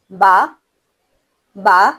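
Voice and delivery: ba said by closing both lips, light and clean; lips together ba. Shown as a demonstration. Teacher showing students how to say ba, light and clean. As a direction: close the lips and release a plain ba. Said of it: "دونوں ہونٹوں کو ملا کر".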